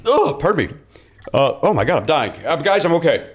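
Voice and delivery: heartburn flaring up mid-talk; recovering from a reflux burp; with acid reflux. Real, not acted. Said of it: "I've got acid reflux".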